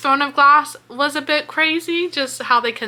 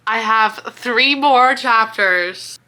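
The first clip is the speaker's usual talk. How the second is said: slow, half laughing half crying; overwhelmed with a few chapters left; 3 semitones lower, slower than usual. Real, not acted. Reader overwhelmed near book's end.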